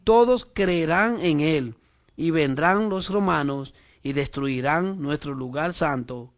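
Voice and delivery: slow, measured Bible reading; scripture reading. Acted. Preacher reading the council's words to the congregation, slow scripture reading. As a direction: read it out slowly, phrase by phrase.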